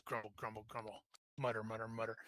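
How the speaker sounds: a grumbling guard who lets them in unwillingly; grudging mutter. Acted. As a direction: mutter it like a sulking apprentice. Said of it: "He's like".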